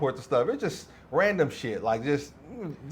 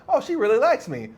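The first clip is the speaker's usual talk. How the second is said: mock smitten glee; 9 semitones higher, 4 dB louder than usual. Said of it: "I'm like".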